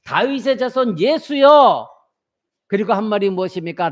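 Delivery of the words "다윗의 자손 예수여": loud, slow cry of "예수여"; a blind beggar shouting on the roadside. Retold or imitated. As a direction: shout it out to Jesus. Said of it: "무엇이라고 외쳤습니까".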